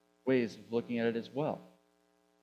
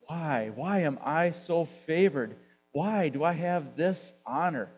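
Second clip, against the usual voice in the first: a touch of wonder, a little louder and slower; amazed honor; 3 semitones higher, 3 dB louder, slower than usual. Shown as a demonstration. Elizabeth amazed at Mary's visit, awed and grateful. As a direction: marvel at being chosen, not complaining. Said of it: "She said it in amazement, honor".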